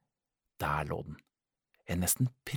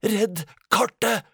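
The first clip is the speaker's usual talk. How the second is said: slow, strained high groan; 11 semitones higher, 7 dB louder, slower than usual. Acted. Fainting pirate groans his last order. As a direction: gasp it out as you faint. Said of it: "stønnet han".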